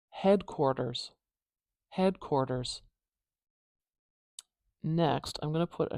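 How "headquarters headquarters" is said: "Headquarters" with the middle t as a quick d-like tap; tapped T. Shown as a demonstration. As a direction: say "Headquarters" with a light flicked t. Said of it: "We're gonna use this tap".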